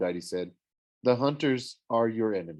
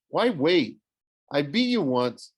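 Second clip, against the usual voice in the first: defiant taunt; 4 semitones higher, 4 dB louder than usual. Acted. Percy taunts Ares.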